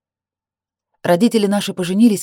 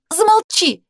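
high shout; 13 semitones higher, 4 dB louder, slower than usual. A narrator's reading. Sister screams at brother.

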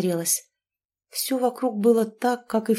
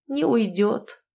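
usual speaking voice

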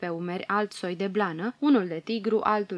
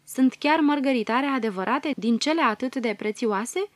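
amazed question; 4 semitones higher, 4 dB louder than usual. Acted. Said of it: "întrebă uluită Mioara".

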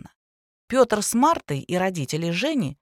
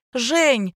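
loud, high call for help; a girl calling for help across the flat; 6 semitones higher, 4 dB louder than usual. A narrator's reading. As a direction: shout his name in alarm. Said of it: "закричала Лялечка".

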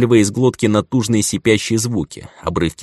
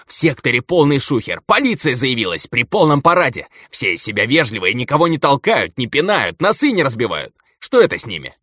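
higher, tumbling over words; breathless excitement; 7 semitones higher than usual. Acted. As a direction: gush it out without a breath. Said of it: "захлёбывающийся голос продолжил". (захлёбывающийся голос)

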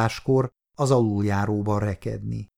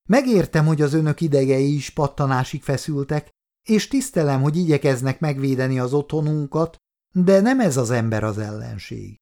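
earnest appeal; 3 semitones higher than usual. Acted. Nurse appeals to soldiers.

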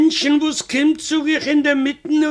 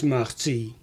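usual speaking voice

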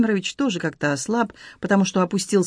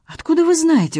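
sharp surprised question, pitched well up and louder; 10 semitones higher, 4 dB louder than usual. A narrator's reading. Heroine startled that Rodion knows about the airport, surprised. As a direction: blurt it out in genuine astonishment. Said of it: "удивилась я".

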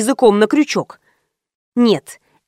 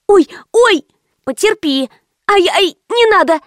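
pained yelps; 8 semitones higher than usual. A narrator's reading. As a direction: yelp as the hair is pulled. Wig yanked off painfully.

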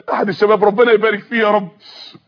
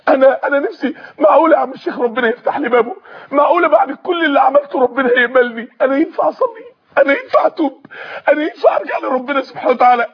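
tearful asking. Acted. Repentant man asks sheikh, weeping.

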